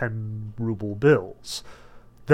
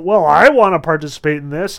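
raised mock audience call; 2 semitones higher, 8 dB louder than usual. Audience members wanting in on the trick, calling out. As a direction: imitate an eager spectator, louder. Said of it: "people start calling out".

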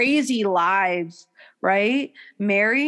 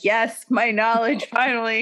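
mock triumph. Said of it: "I feel so fucking like".

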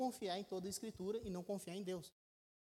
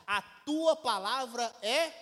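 slow and louder, building up to the word; slow solemn proclamation; 3 semitones higher, 8 dB louder, slower than usual. Acted. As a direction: proclaim it slowly from the pulpit. Reading Jesus' prayer aloud.

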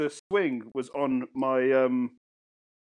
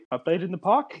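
put-on high, timid kid answer; imitating a frightened child; scared child; 5 semitones higher than usual. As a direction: confess to mum like a cowed little boy. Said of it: "I was so fucking scared to talk".

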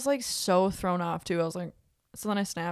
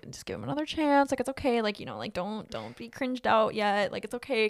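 self pep talk; 4 semitones higher than usual. Retold or imitated. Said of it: "Trying so hard here".

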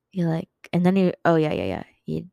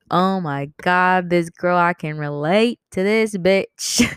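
gushing imagined listener; 3 dB louder, slower than usual. Acted. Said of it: "they'd be like".

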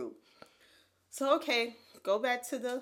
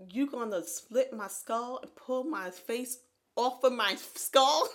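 horrified disbelief; 4 semitones higher, 4 dB louder, slower than usual. Retold or imitated. Horrified at surgeon's plan.

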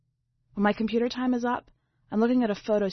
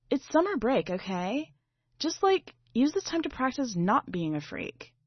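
scornful sister; 5 semitones higher than usual. Acted. Sister scolds narrator.

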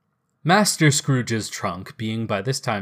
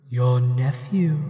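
ghost voice; slower than usual. Acted. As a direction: speak as a gentle ghost. Ghost character voice.

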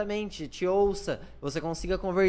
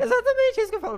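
squealed laughing exclamation; laughing burst; 8 dB louder, faster than usual. Real, not acted. Agreeing with friend about loud talkers, laughing squeal. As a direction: burst out laughing, far higher and louder.

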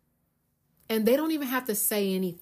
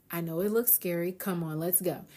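soft coaxing; 2 semitones lower, 6 dB quieter than usual. Retold or imitated. Coaxing scared friend to ride.

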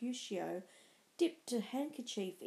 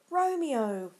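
a hard, loud, higher shout of the name; harsh call; 4 semitones higher, 7 dB louder than usual. A narrator's reading. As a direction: cut him off with a harsh call. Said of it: "interrupted a harsh voice".

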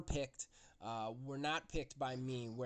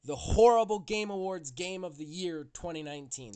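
grand awards announcer; 2 semitones higher, 8 dB louder than usual. Acted.

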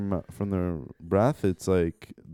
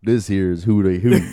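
put-on southern accent; 7 dB louder than usual. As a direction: lean hard into a Southern twang. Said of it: "Southern accent".

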